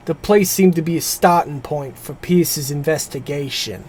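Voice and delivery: put-on narrating in a Boston accent. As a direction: read it like a Boston local. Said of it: "I think that's a passable Boston accent".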